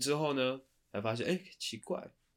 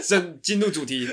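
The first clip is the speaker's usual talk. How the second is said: words squeezed out through laughter; fighting back giggles to start; trying not to laugh; 9 semitones higher, 12 dB louder than usual. Real, not acted. Laughing while starting topic.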